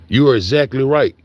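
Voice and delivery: a lightly formal read of the chatbot's reply; a hint of a proper read-out voice; reading the AI answer.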